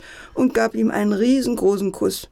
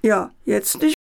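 wailing. A narrator's reading. Hairdresser mourns his broken window, wailing. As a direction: lament it pitifully. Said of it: "jammerte der Friseur".

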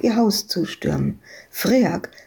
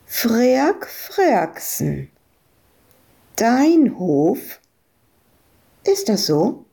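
challenging; 4 semitones higher, much slower than usual. Acted. Ewke confronts farmer.

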